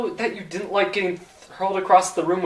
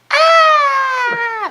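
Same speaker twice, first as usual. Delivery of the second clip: long high scream; 6 dB louder than usual. Acted. Screams in hell.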